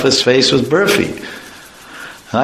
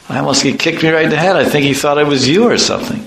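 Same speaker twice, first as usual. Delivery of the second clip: rushed and excited; 4 semitones higher, faster than usual. Acted. Breathless retelling of attack.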